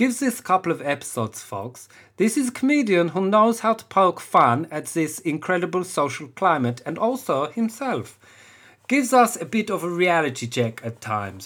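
put-on German accent. Voicing Otto's words aloud, doing a German accent for him. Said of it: "I'm going to go Otto is a German".

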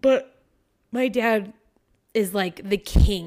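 speaking through a yawn. Talking with another person about their dad, yawning while talking. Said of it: "Sorry, I was yawning".

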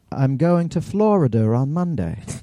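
put-on British accent, British pronunciation throughout. Discussing where regional accents come from with others, put-on British accent. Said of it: "when you know a British person says".

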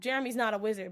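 ordinary delivery

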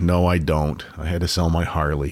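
sad, sorrowful, downcast. Asked about no longer having a motorcycle, admitting having had to sell it, sad. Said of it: "you sound so sad".

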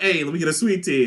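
ordinary talk, nothing marked

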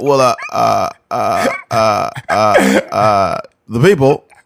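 slow, halting drawl, stalling on every uh. Doing a Barack Obama impression with halting pauses: Barack Obama impression. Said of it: "Barack be like".

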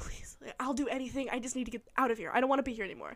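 mock imploring, pleading, begging tone. Retelling a plot where the character begs an airport worker: imitating someone pleading.

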